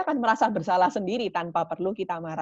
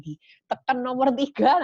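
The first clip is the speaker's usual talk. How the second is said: slow, higher playful voice; mock pressing a button on mom; 6 semitones higher, 6 dB louder, slower than usual. Child pressing mom's button, slow high playful voice.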